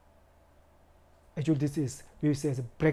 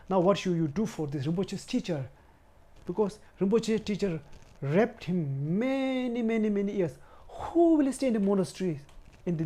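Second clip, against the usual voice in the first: raised, higher voice of an angry uncle; retold angry uncle; 4 semitones higher than usual. Uncle confronting the monks about the teacher, retold angry demand. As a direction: demand an answer, voice climbing with outrage. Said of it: "you know, he's so angry".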